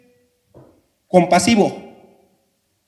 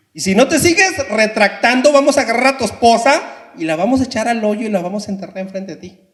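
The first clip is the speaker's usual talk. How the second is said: angry soldier threat; 3 semitones higher, 3 dB louder than usual. Acted.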